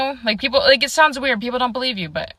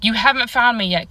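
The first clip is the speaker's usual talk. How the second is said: a calm, taunting statement falling at the end, a little louder; the mystery voice's flat, knowing taunt; eerie voice; 3 semitones higher, 3 dB louder than usual. Retold or imitated. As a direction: hidden voice teasing from the dark. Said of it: "and I hear".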